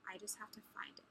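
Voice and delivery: soft whisper while searching; muttered to herself. Real, not acted. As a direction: whisper it under your breath.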